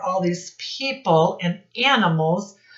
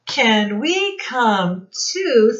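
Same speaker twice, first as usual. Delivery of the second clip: chickens asking; 5 semitones higher, 4 dB louder, slower than usual. Acted. Chickens ask in read story.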